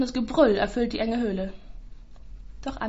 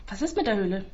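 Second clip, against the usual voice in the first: put-on boy's voice. Julius asks the policeman.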